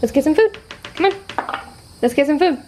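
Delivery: eager, excited dog voice; voicing the dog. Voicing the dog who heard food, eager. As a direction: play the dog hearing food. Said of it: "He's like".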